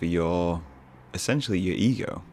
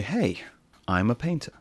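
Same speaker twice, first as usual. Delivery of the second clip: posh painter. Pretend. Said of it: "my voice goes slightly more posh when I'm a painter".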